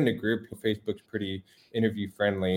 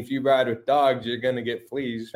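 lightly put-on Southern accent; 2 semitones higher than usual. Musician quotes a corny old saying to the host, mock Southern accent. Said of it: "put my Southern accent on that".

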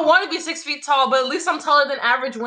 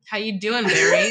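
mock squeaky greeting; 3 semitones lower than usual. Mocking a friend's greeting.

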